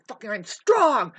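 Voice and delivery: loud, slow, chest-out hero bellow; superhero yell. Acted. Superhero crashing through the wall, bellowing to the crowd. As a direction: roar it like a bursting superhero.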